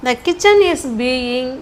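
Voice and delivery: very slow, stretched words; slow dictation. Shown as a demonstration. Teacher reading the passive version to students, slow dictation. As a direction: lay the model sentence out slowly.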